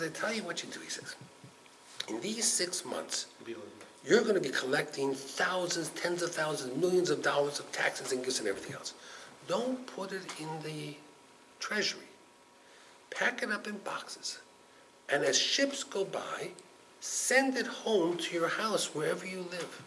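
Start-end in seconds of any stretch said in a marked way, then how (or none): 0.0-0.8 much softer, confiding a secret; hushed secret. Acted. Servant reveals secret plan. 2.1-19.8 much softer, confiding a secret; hushed secret. Acted. Servant reveals secret plan.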